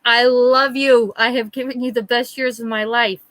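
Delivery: mock a hammered man's heartfelt declaration; a hint of drunken sincerity; earnest drunk brother. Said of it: "and he was serious".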